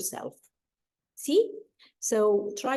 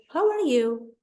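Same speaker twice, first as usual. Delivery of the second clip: "How are you" pitched high and louder at the start; question intonation; 5 semitones higher, 4 dB louder than usual. Shown as a demonstration. Teacher showing learners how to ask a question, with question intonation. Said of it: "You have to give the question its".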